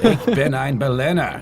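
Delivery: German line through a laugh; laughing while quoting Kennedy; laughing Kennedy quote. Retold or imitated. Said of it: "He says".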